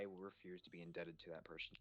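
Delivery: whispered, voiceless aside; whispering. Real, not acted. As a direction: breathe it without voice.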